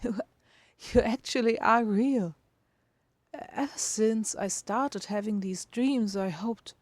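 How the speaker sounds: hushed astonished listener; awed listener. Acted. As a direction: marvel that the dream is real. Listener marvels at him.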